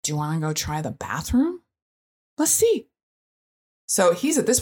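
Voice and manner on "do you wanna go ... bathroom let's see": calmly. Retold or imitated. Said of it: "we very calmly said".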